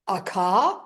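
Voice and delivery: a Boston "car" with the r dropped; Boston accent. Retold or imitated. Customer answering the Boston clerk in a Boston accent. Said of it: "that's how they say it".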